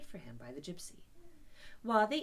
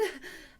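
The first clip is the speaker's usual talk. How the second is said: suppressed laugh; 6 semitones higher than usual. Acted. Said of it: "making strange suppressed noises inside him".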